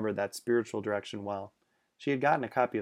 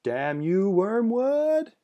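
raised, high cursing shout at the ceiling; half shout; 10 semitones higher, 8 dB louder, much slower than usual. Acted. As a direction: shake your fist and half shout. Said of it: "half shouted while shaking her fist".

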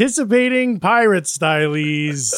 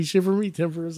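pirate voice; 7 dB quieter than usual. Shown as a demonstration. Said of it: "or you could say".

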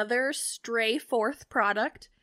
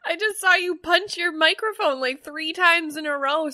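laughing; 6 semitones higher, 5 dB louder than usual. Real, not acted. Still laughing after the mic punch.

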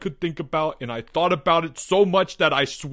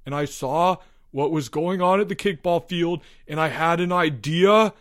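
raised, stumbling, building urgency; panicked confession; 7 semitones higher than usual. A narrator's reading. Albert explains his panic to the boys, urgently.

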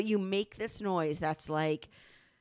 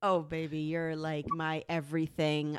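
doting lover; 5 semitones lower than usual. Retold or imitated. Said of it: "this is you when we're having sex".

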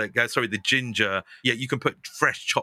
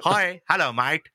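much higher, put-on posh greeting; dad's posh white voice; 6 semitones higher, slower than usual. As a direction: ham up dad's fake posh voice. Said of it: "he literally talks like that".

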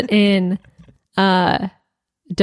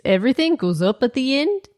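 rising Aussie tune on every phrase; mock Australian lilt; Australian accent. Shown as a demonstration. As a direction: make it all go up at the end like an Aussie. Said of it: "Oh, that was pretty good".

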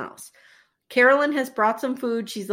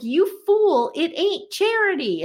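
imitating a wife scolding, higher pitched; mock exasperation; 6 semitones higher than usual. Wife arguing with her proud husband, mock exasperation.

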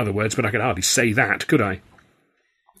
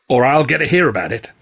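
threatening boss; 3 semitones higher, 5 dB louder than usual. A narrator's reading. Sullivan threatens.

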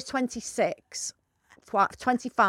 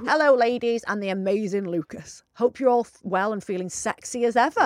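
matey bloke. Acted. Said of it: "read this in your blokey voice".

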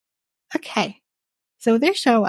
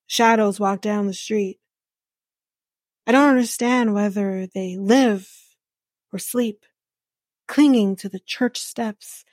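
dramatic reenactment. Retold or imitated. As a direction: reenact an earnest amateur monologue, line by line. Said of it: "I'm gonna reenact".

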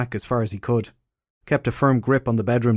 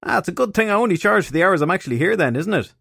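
wry detective voice; 8 semitones higher than usual. A narrator's reading. Visiting detective voiced by narrator.

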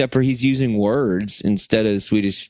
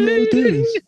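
put-on Scottish accent. A singer faking a Scottish accent to officials. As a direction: ham up a fake accent. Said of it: "change up your accent".

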